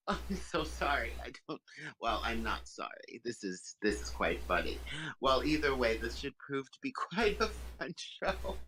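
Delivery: giggling through a half-sorry line; she-devil amused by the mortals; mock apology. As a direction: apologize while still amused.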